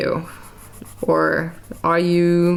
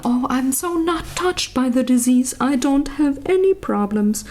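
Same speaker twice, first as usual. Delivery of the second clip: higher, airy mock denial; mock breezy quote; 8 semitones higher than usual. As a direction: play a carefree know-it-all. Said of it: "I am not saying".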